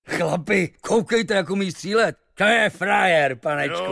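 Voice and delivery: high-pitched, impressed sailor's exclamation; admiring murmur. A narrator's reading. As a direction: marvel to your mates at the marksman. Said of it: "to obdivně zašumělo". (obdivné zvolání námořníka)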